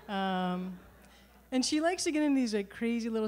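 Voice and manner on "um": usual speaking voice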